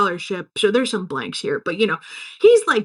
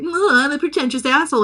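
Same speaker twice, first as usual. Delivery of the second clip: pretentious sophomore; 4 semitones higher than usual. Acted. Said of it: "some sophomore is like".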